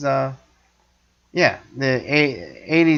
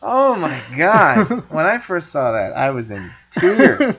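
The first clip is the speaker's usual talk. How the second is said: laughing; 4 semitones higher, 4 dB louder, slower than usual. Real, not acted. Laughing remembering scene.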